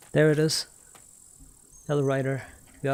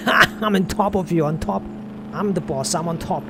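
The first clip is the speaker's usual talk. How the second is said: mock gloating; 4 semitones higher than usual. Streamer mocking gloaters with a bragging voice. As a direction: crow like a sore winner. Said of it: "did I once say".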